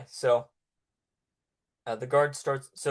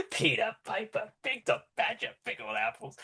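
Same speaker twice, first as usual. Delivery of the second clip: laughing mimicry; 8 semitones higher than usual. Rescuer mocks the line laughing.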